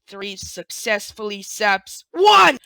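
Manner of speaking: slow excited yell; excited shout. Real, not acted. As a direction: burst out at the big moment. Excited climax of retold scene.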